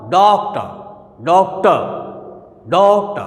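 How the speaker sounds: डॉक्टर repeated with DOK pushed, TAR light; stress on first syllable. Shown as a demonstration. Teacher asking students which syllable gets pressure, first stressed. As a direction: press on DOK each time. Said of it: "किस पर दबाव डल रहा?".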